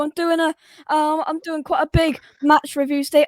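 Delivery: hoarse, fading voice; losing his voice, straining. Real, not acted. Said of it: "I'm losing my voice".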